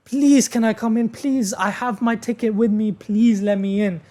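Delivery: high-pitched mock begging; imitated pleading. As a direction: beg to be let back in, imitating her. Retold woman begging at the door.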